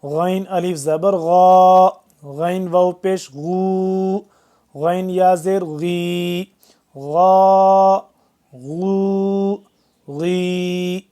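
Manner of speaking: غا rasped firmly from the throat like خا; hard throaty غ. Shown as a demonstration. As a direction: model غا غو غی from the throat. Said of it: "گلے سے ہی نکالیں گے سختی سے".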